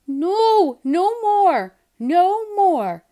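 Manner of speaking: loud high protest; yelling. Acted. Seymour yelling at Kitten, loud and fed up. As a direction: shout it, fed up. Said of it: "yelled Seymour".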